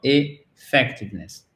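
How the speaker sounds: "Effectiveness" slowly, opening on a light French é; first E as é. Shown as a demonstration. Teacher demonstrating the schwa to learners, light é opening "Effectiveness". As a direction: start "Effectiveness" with é, not too strong. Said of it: "le prononcer comme un E accent aigu français, pas trop fort".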